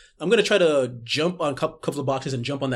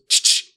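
imitated click sound; 8 dB louder than usual.

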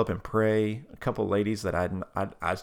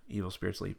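softer, quick echo of the prompt; repeated prayer line; 7 dB quieter, faster than usual. Retold or imitated. Tab repeating the prayer, soft echo. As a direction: repeat it back quietly. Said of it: "repeat after me prayer".

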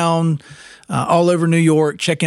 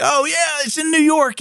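excited movie character; 12 semitones higher than usual. Retold or imitated.

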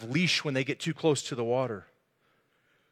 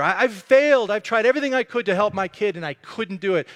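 admitting failure; 3 semitones higher, 4 dB louder than usual. Acted. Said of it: "He's admitting that he's a failure".

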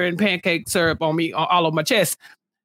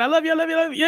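imitating Nicola; 7 semitones higher, much faster than usual. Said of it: "I'll say it again".

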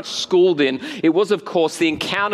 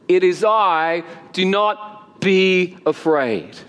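solemn reassurance; slower than usual. Acted. Quotes Jesus reassuring the disciples.

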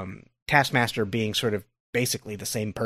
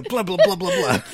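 mocking blah blah; 8 semitones higher, 4 dB louder than usual. Mocking a long speech.

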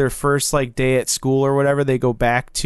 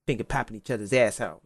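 muttered quote; 2 semitones lower, 8 dB quieter, faster than usual. Retold or imitated. Quoting the movie line.

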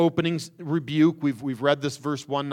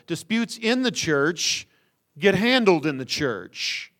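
slow and higher, every word weighted; slow emphatic principle; 4 semitones higher, 3 dB louder, slower than usual. Shown as a demonstration. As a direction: lay down the rule deliberately. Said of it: "this fundamental principle".

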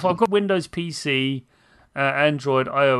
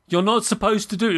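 mild mock yell, raised pitch; yelling at screen; 5 semitones higher than usual. Retelling his outburst at the screen, mild mock yell. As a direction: lightly re-enact yelling at a game. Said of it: "me yelling at the screen, going".

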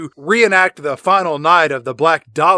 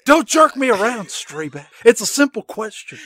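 silly character voice. Acted. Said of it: "saying chili dog in that voice".

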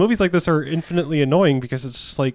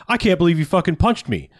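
higher-pitched affronted protest; mock outrage; 4 semitones higher, 3 dB louder than usual. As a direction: play the aggrieved bully, hammed-up. Acted outrage of the punched bully.

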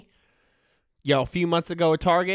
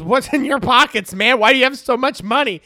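higher, louder mom demanding; higher, louder mock mom demanding; 7 semitones higher, 8 dB louder than usual. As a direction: mom grilling her son.

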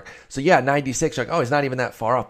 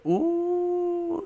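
pleased surprise. Real, not acted. Notices his four-and-four split.

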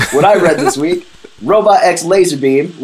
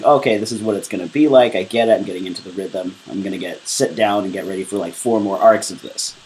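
quiet inner voice; 6 semitones lower, 5 dB quieter, faster than usual. Retold or imitated. Voicing her own thoughts quietly.

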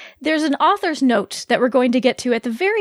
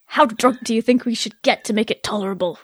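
badly faked British accent; dodgy British accent; 2 semitones lower than usual. Vex asks Bo about getting drunk, dodgy British accent. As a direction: have a go at sounding British. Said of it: "with the British accent".

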